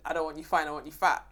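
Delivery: lightly voiced Jamaican granddad; Jamaican accent. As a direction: slip into a mild Jamaican accent. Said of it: "in accent".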